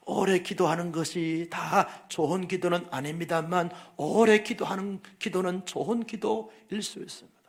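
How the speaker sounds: usual speaking voice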